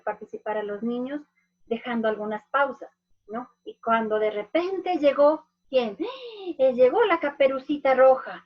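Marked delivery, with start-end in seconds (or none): 3.6-8.4 dramatic pause before Caperucita Roja; storytelling suspense pause. Shown as a demonstration. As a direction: build up, pause, then announce the name louder. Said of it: "Y yo me quedo así".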